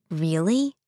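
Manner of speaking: speaking through a mouthful; words round a bite of pizza; mouth full. Acted. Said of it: "she asked with her mouth full".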